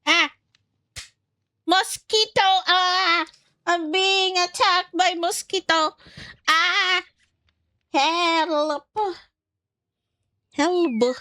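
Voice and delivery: hammed-up terror, screaming for help at a bug; mock panic. Attacked by a mosquito, yelling.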